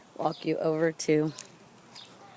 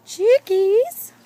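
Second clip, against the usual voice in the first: calling out; 15 dB louder than usual. Real, not acted. Calling chickens from afar.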